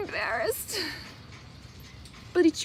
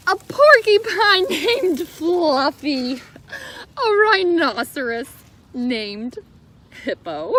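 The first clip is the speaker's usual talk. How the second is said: laughing reader. Real, not acted. Reading to the kids, giggling at both names. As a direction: savour the silly names, giggling.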